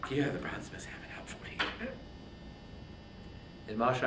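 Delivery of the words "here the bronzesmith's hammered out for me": fast, hushed reassurance; a wounded brother quietly calming the king; quick whisper. Acted. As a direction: rush it out under the breath. Menelaus reassures his brother.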